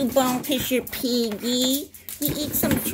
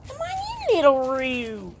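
calling the dog; 3 dB louder than usual. Real, not acted. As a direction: call the puppy in with a lifted voice.

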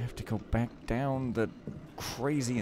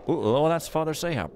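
mock character line; 4 semitones higher, 4 dB louder than usual. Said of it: "Everybody wants to hear me go".

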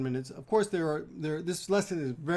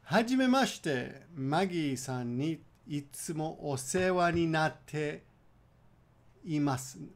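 careful model phrase; slower than usual. Shown as a demonstration. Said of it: "I kinda stuttered there".

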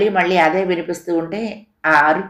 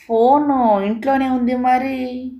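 higher, slow, knowing half-sentence; insinuating trail-off; 7 semitones higher, slower than usual. A narrator's reading. Caller hinting the father is lying, insinuating trail-off. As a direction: let it hang, implying a lie. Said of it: "అర్ధోక్తిగా వాక్యం ఆపి".

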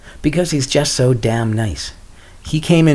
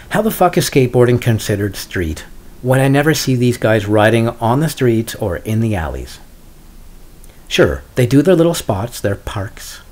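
mildly irritated rant; semi-angry gripe. Real, not acted. Skater griping about skateboarding being called street, semi-angry. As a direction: gripe with a touch of anger. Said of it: "here's a semi-angry gripe".

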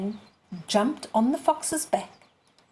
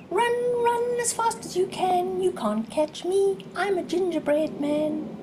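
much higher sing-song taunt; high taunting call; 9 semitones higher than usual. A narrator's reading. Gingerbread man calls out to the fox, high and teasing. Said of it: "he called out".

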